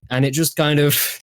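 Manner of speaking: put-on Scottish accent turning Irish; drifting Scottish-Irish accent. Shown as a demonstration. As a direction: wobble between Scottish and Irish as you explain. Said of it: "it kind of just goes more Irish".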